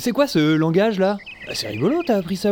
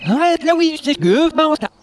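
reversed speech; played backwards; 9 semitones higher, 4 dB louder than usual. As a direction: talk as if the tape runs backwards. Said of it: "On dirait qu'il parle à l'envers".

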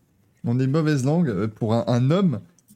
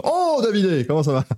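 high cheery greeting; 6 semitones higher than usual. Pretend.

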